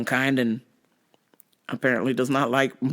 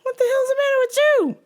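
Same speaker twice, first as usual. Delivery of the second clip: incredulous. Retold or imitated. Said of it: "I was like".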